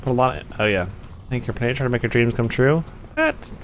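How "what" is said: surprised. Real, not acted. Startled by something in game.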